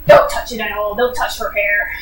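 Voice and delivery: mock melodramatic command; over-the-top dramatic. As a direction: ham up the hero's outrage. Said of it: "In this, like, overly over-the-top dramatic way".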